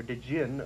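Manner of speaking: "Djinn" with the D voiced as "duh-jinn"; sounded D. Shown as a demonstration. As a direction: sound the D in "Djinn" as its own little syllable. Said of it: "how do you pronounce that".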